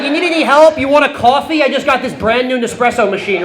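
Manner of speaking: loud, high, anxious-to-please offers; hammed-up eagerness, high and loud; over-eager helper. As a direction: fall over yourself offering hospitality. Acts himself over-eagerly assisting the handyman.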